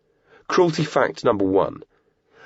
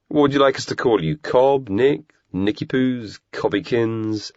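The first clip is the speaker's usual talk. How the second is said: higher mocking pet names; 6 semitones higher, slower than usual. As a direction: tease him with silly nicknames.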